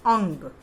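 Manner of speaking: अंग said loudly as a separate letter name; letter pronunciation demo. Shown as a demonstration. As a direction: call out अंग firmly, falling at the end. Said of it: "आपको उसका उच्चारण करके". (अंग का ज़ोरदार, अलग उच्चारण)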